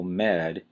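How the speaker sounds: "med" isolated as the strong syllable; strong stress. Shown as a demonstration. Teacher picks out the first syllable, strong stress. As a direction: give med firm weight on its own. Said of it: "strong stress on the first syllable".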